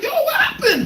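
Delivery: very high-pitched startled cry; mock-panicked parent calling back; retold alarm. Driving parent to wailing child in back seat, alarmed.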